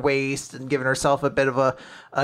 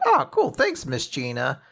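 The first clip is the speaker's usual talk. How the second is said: perky quote; 2 semitones lower than usual. Retold or imitated. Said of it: "And Fuko's like".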